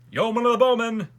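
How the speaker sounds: high, loud herald's shout; echoing court call. A narrator's reading. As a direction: pass the king's order on at full voice. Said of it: "echoed all the lords and noblemen".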